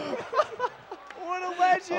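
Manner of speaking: high shouted hype praise; esports caster. Real, not acted. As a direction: scream it like a caster. Runner clutches the trick.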